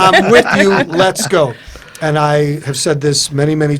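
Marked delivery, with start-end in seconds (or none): 0.0-1.5 quoted through a laugh; laughing quote. Retold or imitated. Coach pushing him out of bed, laughing as he speaks.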